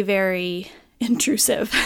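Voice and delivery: a whispered laugh breaking the word; laughing through it. Real, not acted. Laughing about the jackhammer ruining her recording. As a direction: giggle at how absurd the noise is.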